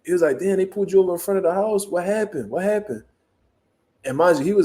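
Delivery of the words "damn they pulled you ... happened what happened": higher-pitched imitation of stepdad asking; imitated calling across. Stepdad asking from across the street, mock calling out. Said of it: "talking from across the street".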